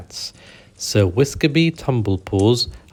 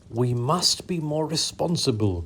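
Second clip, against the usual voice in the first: higher, softer huffing lady cat; huffy; 6 semitones higher, 5 dB quieter than usual. Acted. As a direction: huff it primly. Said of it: "Mew Mew huffed".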